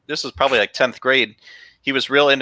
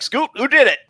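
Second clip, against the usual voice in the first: much higher, mock furious demand; angry teacher; 12 semitones higher than usual. Teacher demanding the culprit, high hammed-up anger. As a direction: pretend fury at the class. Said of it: "he's like".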